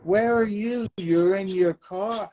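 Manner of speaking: whooping, high-pitched astonishment; excited surprise. Real, not acted. Host greeting a guest who unexpectedly appears, excited surprise.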